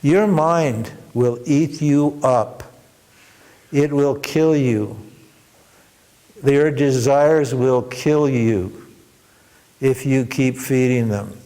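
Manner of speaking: slow, weighty sermon delivery; preaching the moral. Real, not acted. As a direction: drive the lesson home slowly. Teacher draws the moral.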